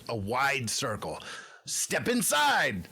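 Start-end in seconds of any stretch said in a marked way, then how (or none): 1.6-2.9 Emil beckoning. Acted. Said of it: "says Emil".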